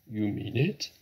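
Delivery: mildly astonished rising question; tentative, hopeful question; disbelieving cry. A narrator's reading. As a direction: ask in restrained disbelief, voice lifting at the end. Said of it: "cried Badger".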